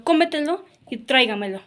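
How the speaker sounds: "cómetelo" and "tráigamelo" stressed at the very start; stress on first syllables. Shown as a demonstration. Teacher giving examples of sobreesdrújulas, first-syllable stress on "cómetelo" and "tráigamelo". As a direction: hit CÓ in "cómetelo" and TRÁI in "tráigamelo". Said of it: "antes de la antepenúltima sílaba".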